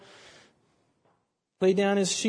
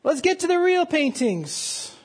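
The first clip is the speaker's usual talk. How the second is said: impatient shout; 9 semitones higher, 4 dB louder than usual. Retold or imitated. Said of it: "Someone in the back room shouted".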